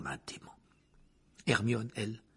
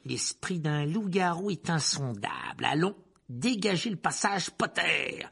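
slower dismissal, pitched up; impatient command; 7 semitones higher, 4 dB louder, slower than usual. Acted. Teacher orders boy out of way, impatient. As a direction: dismiss him, then order him aside. Rogue dismisses Harry's argument.

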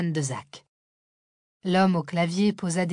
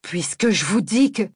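louder angry cut-off; exploding; 5 dB louder than usual. Acted. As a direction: burst out in anger. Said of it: "Zach explosa".

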